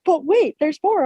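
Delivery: pitched high like a TV ad host; infomercial pitchman. Retold or imitated. Retelling childhood TV ads, mock pitchman voice. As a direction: hype it like an infomercial. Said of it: "one of those, like, commercials".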